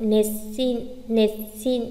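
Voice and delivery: "nệt xin" with a lengthened s; "nệt xin" in two separated beats; geminate s. Shown as a demonstration. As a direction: break after nệt, hiss into "xin". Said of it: "vẫn có thể đánh ngắt được".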